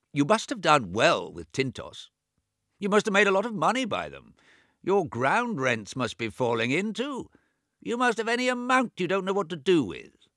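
put-on high, loud old man talking over his own deafness; deaf old James. A narrator's reading. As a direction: raise the voice as if he can't hear himself. James envies his brother's money.

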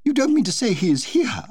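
horrified he might actually be here; the alarmed Duchess can't believe he is at the party; alarmed disbelief. Acted. Alarmed Duchess continues her cry.

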